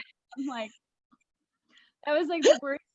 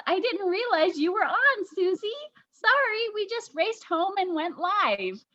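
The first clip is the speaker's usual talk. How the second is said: apologetic reading; 6 semitones higher than usual. Retold or imitated. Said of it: "K Pro says".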